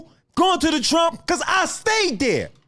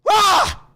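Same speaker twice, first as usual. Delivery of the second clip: short loud angry "Ah!", pitched up; frustrated yell; 6 semitones higher, 4 dB louder than usual. Real, not acted. Streamer erupts mid-rant with a frustrated yell. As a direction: let out a burst of frustration.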